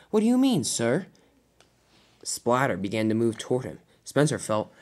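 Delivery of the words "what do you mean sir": puzzled question, jumping high and loud; confused. Acted. Spencer questions Diesel ten's refusal, confused. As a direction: ask in bewilderment, dropping on the last word. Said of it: "Spencer was confused".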